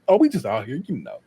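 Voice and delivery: casual cover-up, dropping away at the end; playing it chill. Son hiding the surprise visit from mama, feigned chill. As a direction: imitate acting nonchalant, tossing off the last words. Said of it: "catch my chill".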